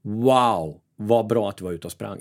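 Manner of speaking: a lightly voiced burst of pleasure on the wow; energetic self-praise. Speaker praising himself in the shower, mild lift. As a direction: cheer yourself on after the run, a touch livelier. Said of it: "Jag får en annan röst".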